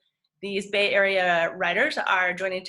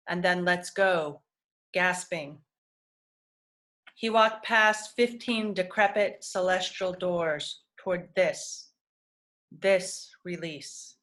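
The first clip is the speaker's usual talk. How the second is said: measured recital with falling line endings; poetry reading. Acted. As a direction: read it as verse, pausing after each phrase. Reads a poem aloud.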